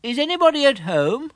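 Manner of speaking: high call of a bear into a burrow; calling into a hole. Acted. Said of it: "and called out".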